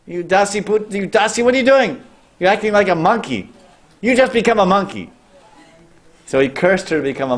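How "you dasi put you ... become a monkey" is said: shocked sage. Acted. Sage Brihaspati fending off the maidservant, shocked high outburst. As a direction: recoil in outrage, voice shooting up. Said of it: "He said".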